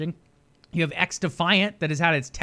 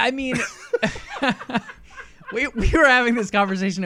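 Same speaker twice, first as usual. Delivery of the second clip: loud high laughing; 8 semitones higher, 5 dB louder than usual. Real, not acted. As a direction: burst out laughing mid-sentence. Laughing fit.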